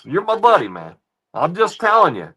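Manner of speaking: pressing the point hard at a friend; worked-up ranting; heated. Real, not acted. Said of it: "I'm not yelling at you".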